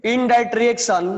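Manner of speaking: slow, word by word dictation; measured classroom dictation. Shown as a demonstration. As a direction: spell it out slowly for note-taking. Dictating a definition to students.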